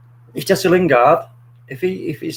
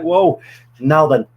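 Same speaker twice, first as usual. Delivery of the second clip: hopeful whoa; 3 dB louder than usual. Retold or imitated. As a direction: stretch it out as hope rises. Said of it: "I'm like".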